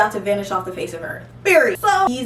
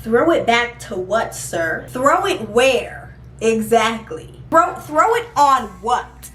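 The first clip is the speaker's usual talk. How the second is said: incredulous mockery; slower than usual. Real, not acted. Mocking his request, incredulous.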